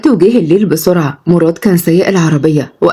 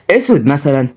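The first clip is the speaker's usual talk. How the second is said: low, sober grandson voice; understated man's voice; calm suggestion; 4 semitones lower than usual. Acted. Grandson calmly suggests black.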